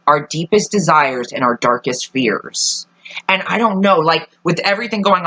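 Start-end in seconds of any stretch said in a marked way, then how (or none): 0.1-2.9 dramatic quote. Retold or imitated. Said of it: "one of the things he said is".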